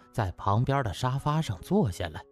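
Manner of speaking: ordinary delivery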